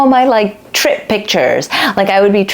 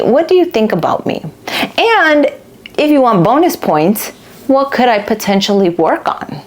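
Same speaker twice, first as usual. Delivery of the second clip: earnest asking; 3 semitones higher than usual. Retold or imitated. Asking others about yourself.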